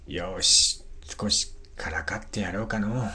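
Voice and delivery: put-on knowing old hunter plotting mischief; creaky wise old man. Gisuke decides to tease gods. (ずる賢い老人の声)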